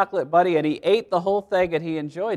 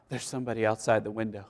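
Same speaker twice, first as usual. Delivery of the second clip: put-on softer, quick frightened child's whisper-like reply; scared little child; 6 semitones lower, 9 dB quieter, faster than usual. Frightened child telling daddy about the window, soft and quick. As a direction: rush it out, small and scared.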